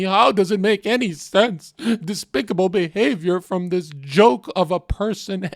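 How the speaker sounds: mock xQc reading his own tweet. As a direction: stutter into it, then push the lines out hard. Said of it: "let me do an X Q C's voice".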